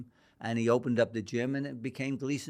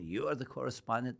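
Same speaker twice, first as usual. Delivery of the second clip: imitating a Greek promoter's accent; lightly put-on Greek accent, a touch softer; thick Greek accent; 5 dB quieter than usual. Promoter sizing up his young correspondent, thick Greek accent. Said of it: "the stick Greek accent".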